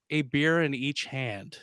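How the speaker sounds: slow deadpan punchline. Acted. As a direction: let the punchline land slowly. Punchline delivered slowly.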